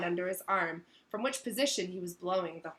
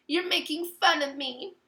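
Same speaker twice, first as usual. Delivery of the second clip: high, louder wounded whine; hurt, pitched-up protest; tearful accusation; 8 semitones higher, 6 dB louder than usual. A narrator's reading. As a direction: accuse them while close to tears. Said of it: "silver tears welling rapidly".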